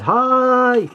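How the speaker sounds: high-pitched cheery hi; squeaky hi. Pretend. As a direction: chirp a bright hi. Figure peeks from side.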